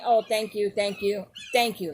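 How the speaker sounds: quick, empty, throwaway thanks; like nothing. Shown as a demonstration. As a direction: toss off thank-yous with no feeling. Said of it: "like nothing".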